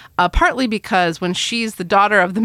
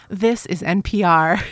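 NPR announcer voice; slower than usual. Retold or imitated. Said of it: "I get to say".

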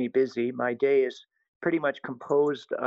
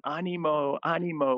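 mildly raised, cheering chant; retold cry of encouragement; imitating cheering kids; 3 semitones higher than usual. Kids cheering the priest on as he runs, imitated cheering. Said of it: "they're all cheering me on".

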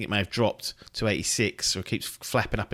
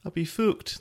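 higher-pitched, rough try at Scottish; put-on Scottish accent; 7 semitones higher than usual. Shown as a demonstration. Joking about losing his accent act, put-on Scottish accent. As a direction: joke in a bad Scottish accent. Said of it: "I'm always doing a Scottish accent".

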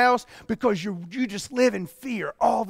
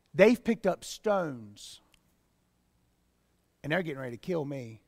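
desperate plea; 5 semitones lower, 6 dB quieter than usual. Retold or imitated. Moses pleading to God.

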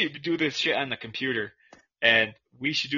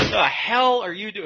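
high, slow, puzzled question; what the hell is that noise; surprised; 7 semitones higher, 5 dB louder than usual. Real, not acted. Startled by noises on call.

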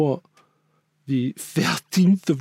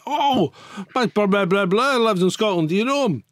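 American tourist; 4 semitones higher than usual. Retold or imitated. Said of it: "somebody stops you and goes".

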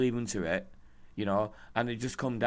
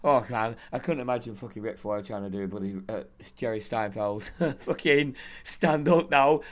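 ordinary delivery

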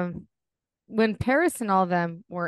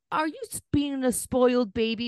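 mock baby talk; 4 semitones higher than usual. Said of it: "the way people talk".

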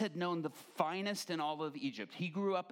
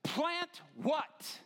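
incredulous question; 13 semitones higher, 4 dB louder than usual. Retold or imitated. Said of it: "one of the young leaders says".

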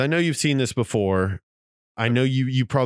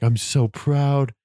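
mock Clark speech building; 6 semitones higher than usual.

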